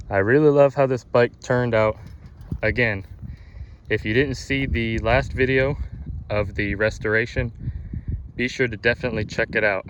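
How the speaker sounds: out of breath from pedalling; winded, talking between breaths; gasping for air. Real, not acted. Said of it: "Sorry, I'm out of breath".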